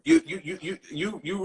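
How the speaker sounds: giggling through a stammered you; laughing as the comments fly by too fast. Real, not acted. Overwhelmed by scrolling comments, laughing stammer.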